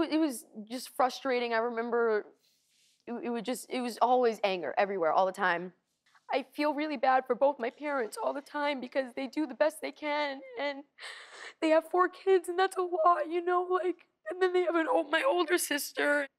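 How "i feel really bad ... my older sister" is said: tearful, voice rising high; crying, worn out. Real, not acted. Guest breaks down about parents.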